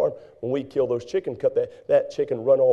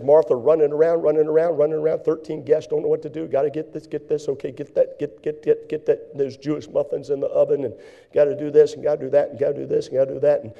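hurried Martha; 4 dB louder than usual. Acted. Acting out Martha's rushing.

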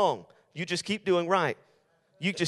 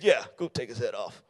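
mock vengeful king; 2 semitones higher than usual. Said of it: "He could have looked at that man and said".

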